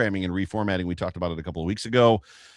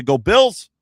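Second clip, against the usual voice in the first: loud, high rallying cry; a proud hometown team cheer, higher and louder; cheering sign-off; 7 semitones higher, 8 dB louder than usual. Real, not acted. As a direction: fire up the fans on the way out.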